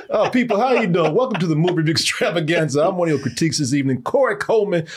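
brisk fast host intro; show host opening. Acted. Host rattles off the show welcome to viewers.

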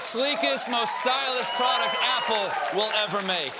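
gushing. Acted. Boasting about his Apple iBook.

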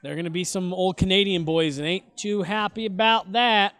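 lightly put-on Southern accent. Host joking about old Canadian boys, slight Southern accent. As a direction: slip into a hint of a Southern accent. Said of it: "I don't know why I went Southern accent for that".

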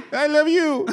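high laughing diva reply; Liza Minnelli impression. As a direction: coo it back like a diva, laughing. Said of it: "She goes".

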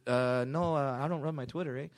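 lightly faked Canadian drifting into Mexican; offhand, Mexican-sounding Canadian impression; botched Canadian accent, turning Mexican. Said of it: "There's the fucking Mexican accent".

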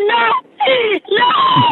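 high, wailed "no", acted out; dramatised squeal of protest; retold near-crying. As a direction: relive the tearful refusal, voice leaping up. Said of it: "yo estaba casi llorando".

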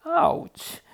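high little yelp of pain; pained ouch. A narrator's reading. Rabbit's ears hurt from shouting, pained yelp. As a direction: yelp as if it hurts.

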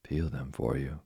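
mildly surprised question rising at the end; a touch of disbelief at the request; astonished. Acted. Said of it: "cried Geppetto, astonished".

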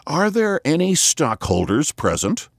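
hoarse, booming like into an empty barrel; a boy calling into a hogshead, hoarse and high; mock hollow echoing call. A narrator's reading. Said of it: "making his voice hoarse like a boy calling into an empty hogshead".

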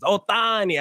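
put-on Boston accent. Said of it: "Imagine all those Boston people in the accents".

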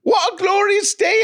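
loud, high-pitched bad Irish that slips into British; attempted Irish accent. Host tries an Irish accent for co-host, loud hammy mock Irish. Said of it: "in your best Irish accent".

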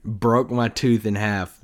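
ordinary talk

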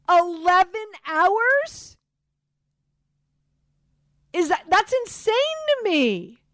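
high, slow, drawn-out disbelief; incredulous. Real, not acted. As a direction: stretch out the shock. Outrage at the eleven-hour sedation.

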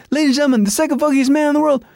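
hyped-up imitation of a concert introduction; stage announcer. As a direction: announce the star, stretching out the name. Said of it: "It's like".

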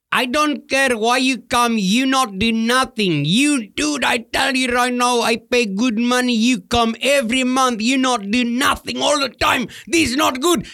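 put-on angry old customer. Angry customer yelling at the pest control guy in a high voice. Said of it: "he just yelled and screamed at me".

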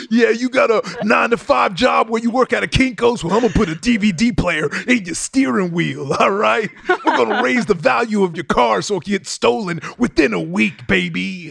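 loud, high hyped-up host voice; a rapper. Retold or imitated. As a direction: shout it like a hype TV host. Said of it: "I do Exhibit".

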